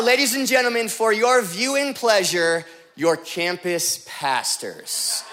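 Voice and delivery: mock grand introduction, drawing out the last words; mock announcer. Introducing pastors like a show announcer.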